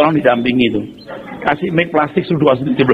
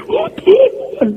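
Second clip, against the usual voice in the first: mock wail. Imitating congregants weeping.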